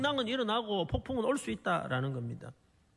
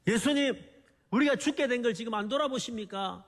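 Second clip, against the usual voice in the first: mildly raised, higher-pitched plea; crying out to Jesus; 3 semitones higher than usual. Retold or imitated. Disciples call to Jesus in the storm, crying out. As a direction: imitate desperate disciples calling out. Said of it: "예수님을 향해 막 소리칩니다".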